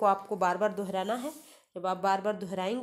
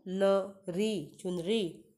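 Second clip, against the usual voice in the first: न, री stretched very slowly before चुनरी; slow spelling out; much slower than usual. Shown as a demonstration. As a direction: sound out चुनरी slowly for children. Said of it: "मेरे साथ दोहराएंगे". (चुनरी को धीरे-धीरे अक्षर-अक्षर पढ़ना)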